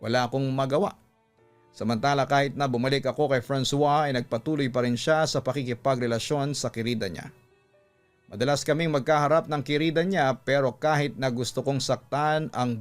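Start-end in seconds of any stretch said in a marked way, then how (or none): none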